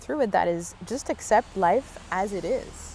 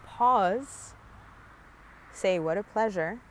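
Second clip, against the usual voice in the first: gentle demo; much slower than usual. Shown as a demonstration. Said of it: "notice that voice at all times".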